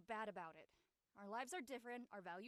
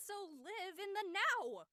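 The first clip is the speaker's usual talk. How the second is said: slow, loud, higher mock-guru chant; peace shaman; 5 semitones higher, 7 dB louder, slower than usual. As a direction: boom it out like a hammy serene shaman. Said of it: "the silent peace shaman shit".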